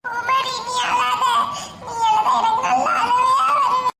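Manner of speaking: high, slow half-laughing sob; tearful high voice. Acted. Brother tells Kumari not to cry, tearful and high. Sibling comforting while crying.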